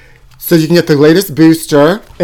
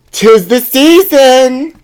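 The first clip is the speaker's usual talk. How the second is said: high, slow and a little louder, drawn out; sing-song proclamation; 8 semitones higher, 4 dB louder, much slower than usual. Acted. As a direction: announce the season like a carol. Festive proclamation.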